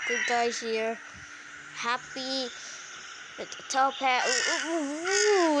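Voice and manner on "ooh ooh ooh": long drawn-out oohs; excited oohing. Real, not acted. Player reacts to a game figure, excited oohing. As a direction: draw out the oohs with rising interest.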